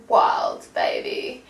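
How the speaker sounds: loud thrilled exclamation; excited shout. Real, not acted. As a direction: call it out with glee. Excited card reading.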